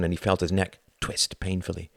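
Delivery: plain reading voice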